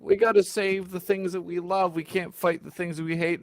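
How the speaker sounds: lightly mocking recital; mock film quote. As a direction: parrot the sappy movie line mockingly.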